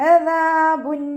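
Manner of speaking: അദാബുൻ chanted high with the final n sounded clearly; അദാബുൻ with a crisp, unmerged n; clear nunation. Shown as a demonstration. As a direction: ring out the n of അദാബുൻ. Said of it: "നൂനിൻ്റെ സൗണ്ടിനെ വ്യക്തമായിട്ട് കേൾപ്പിക്കുക".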